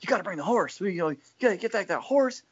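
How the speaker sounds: Jim Harbaugh impression. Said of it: "'cause Harbaugh's going".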